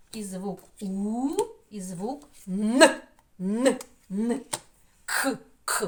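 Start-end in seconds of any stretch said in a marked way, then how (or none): 3.4-5.9 Н hummed, К clicked short; isolated consonants. Shown as a demonstration. Teacher isolating consonants for children, crisp and clear. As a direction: say н and к alone, crisp. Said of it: "Горло заважає".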